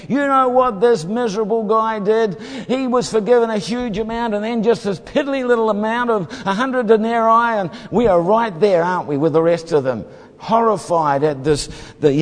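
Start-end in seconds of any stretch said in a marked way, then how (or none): 0.1-7.6 higher, outraged telling-on; mock-outraged servants complaining to the king; indignant tattling. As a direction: run to the king scandalised.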